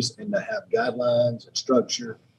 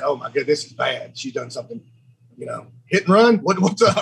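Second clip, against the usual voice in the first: panicked; 2 semitones higher than usual. Retold or imitated. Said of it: "I was panicking".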